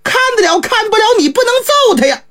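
put-on father upset that the monk struck his boy; anxious protest. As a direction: rush it out in a panic for your son. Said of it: "当时就急了".

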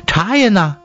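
high-pitched wife's question. A narrator's reading. Country wife asking for tea leaves, high carrying voice. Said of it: "声音非常的高".

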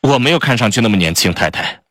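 fast, a touch offended; quick, slightly stung retort; mildly annoyed. Acted. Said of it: "有些生气地说道".

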